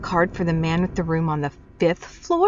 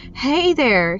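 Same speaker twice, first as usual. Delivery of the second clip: startled exclamation; 6 semitones higher, 5 dB louder than usual. Acted. Startled protest.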